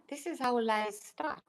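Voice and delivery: unvoiced whisper of this is how lies start. Shown as a demonstration. Vlogger to her viewers, a conspiratorial whisper. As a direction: breathe it out as a secret.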